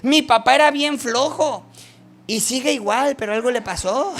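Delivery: put-on loud wondering children's voice; amazed children. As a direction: play the kids marvelling at their changed father. Children voiced wondering about parent.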